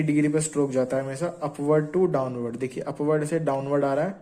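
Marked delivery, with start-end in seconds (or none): 1.4-2.6 upward to downward drawn out very slowly; slow demonstration. Shown as a demonstration. Teacher slowly says stroke direction to students, very slow. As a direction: spell out each word slowly as you draw. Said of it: "stroke direction demo".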